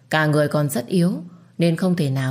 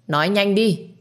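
mild shout; 4 semitones higher than usual. Acted. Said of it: "quát lớn".

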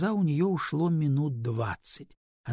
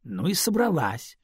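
cheeky; 4 semitones higher, 3 dB louder than usual. Acted. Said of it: "дерзко ответила Лариса".

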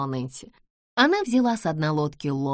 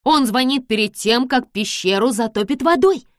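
alarmed warning; 6 semitones higher, 7 dB louder than usual. Acted. George warns of flood.

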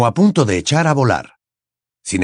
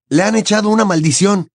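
urgent repetition; 9 semitones higher than usual. A narrator's reading. Harry repeats over wind.

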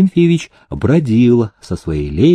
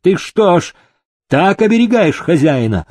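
angry; 6 semitones higher than usual. A narrator's reading. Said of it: "осердился Демидов".

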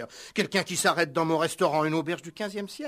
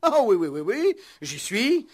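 slow realization; 4 semitones higher, 5 dB louder than usual. Acted. Owner recognises slowly.

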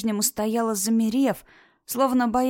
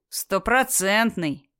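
proud; much slower than usual. Acted. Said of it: "чересчур гордо ответил капитан".

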